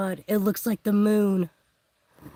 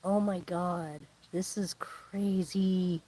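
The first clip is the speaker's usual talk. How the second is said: awed; 2 semitones lower, 5 dB quieter, slower than usual. Real, not acted. Eclipse totality begins, awe.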